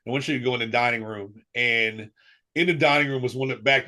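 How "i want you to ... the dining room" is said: understated, very calm directive; retold calm instruction. Mother telling her son to get up, very calmly. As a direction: quote a parent's calm, even order. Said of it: "you know, very calmly".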